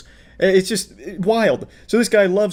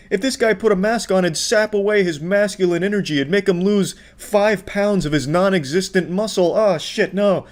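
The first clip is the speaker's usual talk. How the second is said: raised, sarcastic tone of alarm; mock alarm; 4 semitones higher than usual. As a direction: play up the fake dread.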